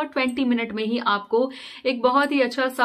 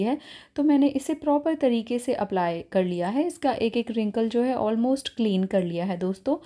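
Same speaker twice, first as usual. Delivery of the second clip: talking with face mask on; wearing a sheet mask. Real, not acted. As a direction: lips moving inside mask opening. Seen 1: Thin sheet mask covers her face; mouth opening cut out; removed after 18.7.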